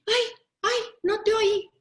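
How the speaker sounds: put-on high, loud, sing-song kid excuse; high child's voice, loud and innocent. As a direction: play the innocent little kid who didn't hear. Child feigning he didn't hear.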